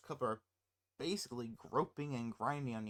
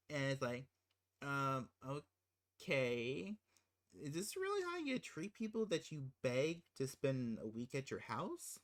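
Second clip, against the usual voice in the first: usual speaking voice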